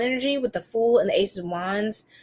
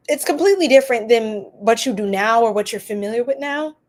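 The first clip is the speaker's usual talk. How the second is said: burping; 4 dB louder than usual. Real, not acted. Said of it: "I keep burping".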